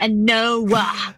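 "Noah" as a drawn two-syllable "no-ah"; daughter's "no" said as "Noah"; extra syllable. Retold or imitated. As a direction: stretch "no" into "Noah" like the teen daughter. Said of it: "Like, no was Noah".

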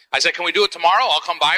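ordinary talk

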